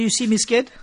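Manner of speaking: softly put, unbothered question; imitated calm. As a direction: quietly ask it, quite unimpressed by the threat. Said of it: "so calm".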